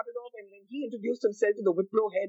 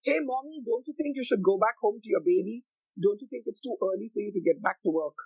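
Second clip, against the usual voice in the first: cheeky teasing. Retold or imitated. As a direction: lightly imitate a cheeky young reporter teasing. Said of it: "very cheekily said".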